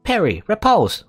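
high excited cry; playful battle cry. Acted. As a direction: shout it like a duel parry. Playful mock fight.

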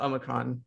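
"Omicron" with a deliberate long OH; intentional pronunciation. Shown as a demonstration. Host declaring what they'll call it, long-O "Omicron". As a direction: say "Omicron" as OH-mi-cron. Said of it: "this is an intentional pronunciation".

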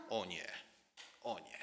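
low, soft, ominous refusal; quiet menace. Acted. Joab quietly deciding Abner's fate, low and menacing. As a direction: breathe a cold threat.

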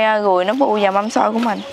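usual speaking voice

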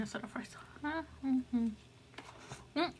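talking around a fork; mid-bite mumbling; mouth full of food. Real, not acted. Seen 0: Fork with fries held in her lips while she says mm-hmm.

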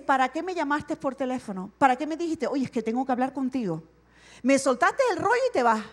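mock exasperated counselor. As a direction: scold the friend who just vented and left. Preacher voices frustrated counselor.

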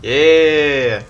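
loud, high, drawn-out yeah; triumphant yeah. Real, not acted. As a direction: cheer it out long. Celebrating a kill.

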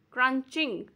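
crunching as crun-ching, two beats; a short gap inside crunching; crunching in two parts, split before ching; split into syllables. Shown as a demonstration. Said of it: "two syllables".

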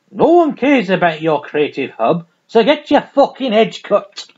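put-on half-successful Merseyside accent, punched out; attempted Merseyside accent. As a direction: have a rough go at Merseyside. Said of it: "I can't do a Merseyside accent".

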